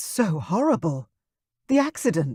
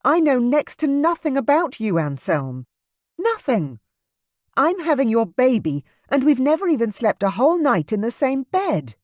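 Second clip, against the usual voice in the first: higher, louder, accusing through tears; tearful fury; 8 semitones higher, 3 dB louder than usual. Acted. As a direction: pour out every grievance. Kayla confronts Anselm, crying angrily.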